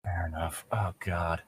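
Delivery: real defeated whisper under the breath; muttered whisper of resignation. Real, not acted. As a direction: breathe it out, giving up. Resigned aside to himself.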